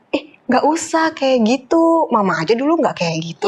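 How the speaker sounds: lightly voiced mother brushing it off; a hint of a dismissive parent; disapproving mother. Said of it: "orang tua kita sendiri tuh kadang".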